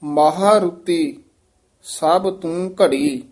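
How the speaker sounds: slow demo, ਮਹਾਰੁਤੀ set apart, rest after ਘੜੀ; pause after ਘੜੀ. Shown as a demonstration. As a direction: stretch the phrase and close on ਘੜੀ. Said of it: "ਇੱਥੇ ਵਿਸਰਾਮ ਲਾਉਣਾ ਹੈ".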